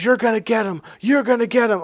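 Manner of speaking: retold angry taunt. Brother-in-law turns on him after sneezing, imitated angry yell. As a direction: imitate someone pressing an angry warning. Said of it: "he's just yelling at me".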